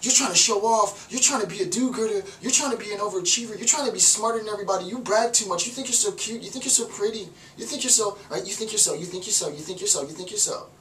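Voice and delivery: a crowd sneering at the show-off; mocking accusation. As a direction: needle the show-off. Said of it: "everybody around is like".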